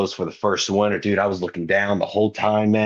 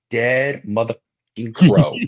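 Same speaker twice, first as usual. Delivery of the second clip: emphatic disbelief; 5 dB louder, slower than usual. Retold or imitated. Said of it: "I hugged Chip and I said".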